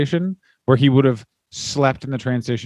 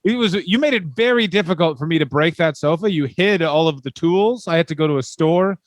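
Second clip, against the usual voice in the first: higher, dopey earnest brute; mock Vachon voice; 4 semitones higher than usual. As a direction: proudly explain the broken sofa like a lunk.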